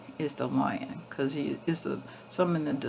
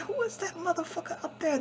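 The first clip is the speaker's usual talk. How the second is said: voicing the lion; 12 semitones higher, 4 dB quieter than usual.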